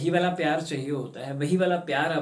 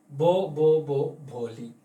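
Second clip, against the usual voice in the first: stammering out name; much slower than usual. Acted. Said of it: "अपना नाम बोलने में कामयाब".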